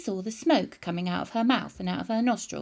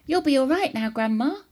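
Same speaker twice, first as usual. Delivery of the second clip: mildly proud; 3 semitones higher, 5 dB louder than usual. A narrator's reading. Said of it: "George announced proudly".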